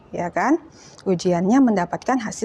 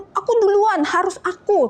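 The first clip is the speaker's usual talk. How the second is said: much higher, bossy me-first whine; demanding child; 9 semitones higher than usual. Acted. Child demanding to go first, sulky and pushy. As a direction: insist on going first. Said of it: "Terus marah-marah".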